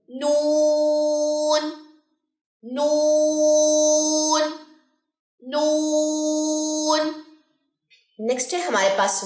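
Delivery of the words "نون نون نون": نون held very long and slow; drawn-out نون. Shown as a demonstration. Teacher demonstrating the letter slowly. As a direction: stretch نون out clearly. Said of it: "واو، نون".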